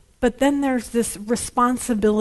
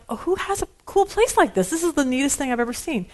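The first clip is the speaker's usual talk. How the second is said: excited quote; 3 semitones higher than usual. Retold or imitated. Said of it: "and I'm like".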